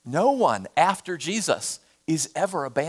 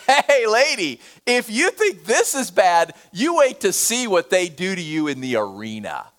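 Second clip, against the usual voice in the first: mocking jailer. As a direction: sneer at her like a cruel jailer. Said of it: "the jailers start mocking her".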